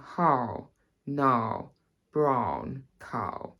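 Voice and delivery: RP vowels placed on the bottom lip; refined RP accent on each word. Shown as a demonstration. Accent teacher demonstrating RP mouth placement, RP accent. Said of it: "first the R P accent".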